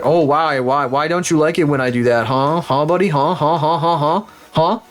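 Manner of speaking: mock-confrontational needling, rising questions; a little heated. Buyer goading a dealer over an inspection, a little heated. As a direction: badger them with piled-up questions, mildly worked up. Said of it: "I'm getting a little heated".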